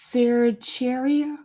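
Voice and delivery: slow, unsure "Cercheria?" with a ch; trying out pronunciation. Shown as a demonstration. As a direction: sound out "Cercheria?" slowly as a question. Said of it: "That's how you say it?".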